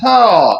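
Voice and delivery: ہا pushed from the throat, breathy and forceful; ہا as a strong throaty h. Shown as a demonstration. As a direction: push ہا up from the throat with a little force. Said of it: "حلق سے پڑھیں گے تھوڑا سا زور لگا کر".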